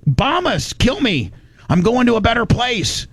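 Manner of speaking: high, eager mock fanatic; mocking zealot voice. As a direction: lightly voice a zealot welcoming death. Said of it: "They're like".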